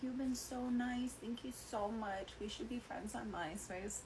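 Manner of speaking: high-pitched, softened gushing imitation; tipsy sweet girl. Tipsy customer thanks her bartender, high gushing sweetness. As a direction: imitate a tipsy girl making a new friend.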